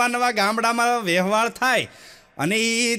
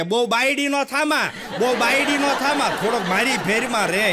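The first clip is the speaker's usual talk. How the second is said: changed tone; 2 semitones higher than usual. Retold or imitated. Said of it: "આખો tone ફરી જાય".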